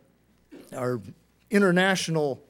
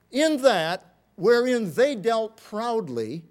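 slow scripture quote; 4 semitones higher, 5 dB louder, much slower than usual. Acted. Quoting scripture as Jethro.

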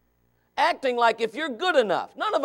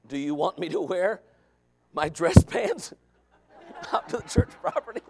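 laughing son; 3 semitones lower than usual. Retold or imitated. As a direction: ask while giggling.

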